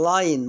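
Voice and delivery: لاين said with a long "ai"; English line with a long i. Shown as a demonstration. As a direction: say لاين with the "ai", not لين. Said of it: "ما أقولش لين".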